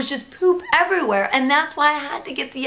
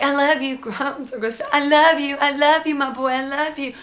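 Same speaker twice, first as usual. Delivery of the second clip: higher sing-song, ending in a laugh; doting baby talk; 4 semitones higher than usual. Retold or imitated. Mom cleaning poop off her baby, doting coo. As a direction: coo lovingly through the mess. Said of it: "I was like".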